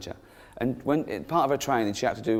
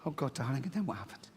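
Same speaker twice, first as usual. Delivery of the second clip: soft, dismayed parent pressing gently; hushed acted concern; concerned father; 9 dB quieter than usual. Father hearing his daughter's account, softly dismayed.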